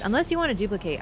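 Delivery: slight southern twang slipping in; southern accent. Real, not acted. Player offers teammates an option, accidental southern accent. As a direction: let a southern accent slip out briefly. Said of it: "brought out a southern accent".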